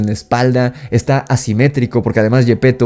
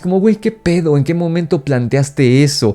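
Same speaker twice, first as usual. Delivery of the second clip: incredulous outburst; 5 semitones higher than usual. Real, not acted. Incredulous at the remake's ending.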